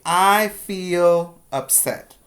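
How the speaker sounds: model sentence. Shown as a demonstration.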